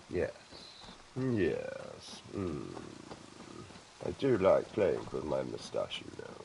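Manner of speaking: lightly hammed-up posh English gentleman; a hint of a stuffy old toff, very proper; posh gentleman impression.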